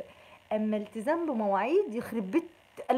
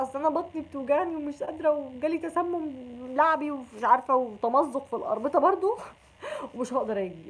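higher, laughing through a fake excuse; mock excuse laughing; 4 semitones higher than usual. Friend excusing herself from iftar, giggling fake excuse. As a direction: fake being sick while giggling.

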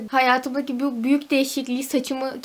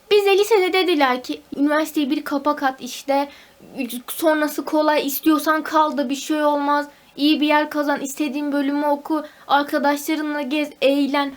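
raised, louder indignant rant; worked-up rant; 2 semitones higher, 4 dB louder than usual. Real, not acted. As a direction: vent loudly about broken promises. Ranting about school promises. (yüksek sesle, sitemkâr)

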